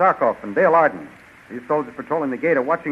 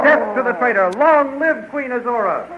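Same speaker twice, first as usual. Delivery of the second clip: rousing cry; 7 semitones higher than usual. Acted. Cheering the new queen.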